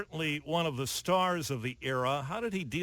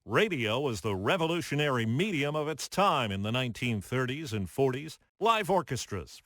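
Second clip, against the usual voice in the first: scripted radio narration, a bit louder and lively; news feature read; 4 dB louder than usual. Acted. Host opening the radio history segment for listeners, news read. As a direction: paint the scene for the listener at home.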